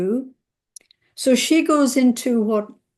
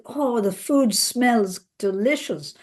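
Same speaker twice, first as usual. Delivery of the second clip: breezy false cheer; 4 semitones higher than usual. Retold or imitated. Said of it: "As if nothing has happened".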